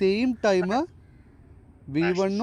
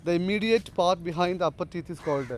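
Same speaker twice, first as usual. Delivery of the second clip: slow dictation; much slower than usual. Shown as a demonstration. Teacher reads out quiz question.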